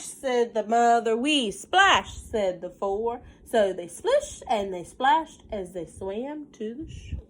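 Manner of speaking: put-on sing-song read-aloud for a child; lilting picture book reading; story narration. A narrator's reading. Mother reading a counting book to her child, sing-song.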